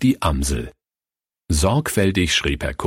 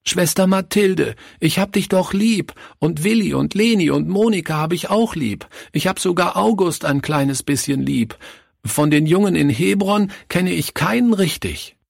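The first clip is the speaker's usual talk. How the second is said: put-on pleading child; 10 semitones higher than usual.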